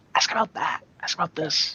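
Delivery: hushed, quiet whisper. Picturing a player crouched behind and prompting the others: put-on whisper. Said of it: "kinda crouching down, whispering".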